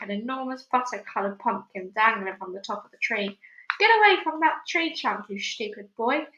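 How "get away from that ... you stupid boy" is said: put-on high loud angry yell at the boy. Aunt ordering James from the trunk, angry yell. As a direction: yell at him to get back. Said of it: "Aunt Spiker yelled".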